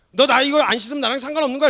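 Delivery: loud, high storytelling scold; mock angry warning. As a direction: act out a forceful ultimatum. Retold annoyed warning to disciple. (크고 높게 으름장 놓는 흉내)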